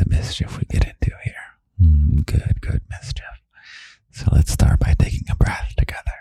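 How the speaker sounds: whispered ASMR podcast, close to the ear; intimate whisper. Real, not acted. Host alone with little bunny late at night, whispering.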